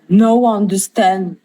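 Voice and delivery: slow French-accented broken English; French speaker trying English slowly; English attempt. Real, not acted. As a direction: sound out the English carefully, slowly. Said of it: "j'essaie d'améliorer mon accent en anglais".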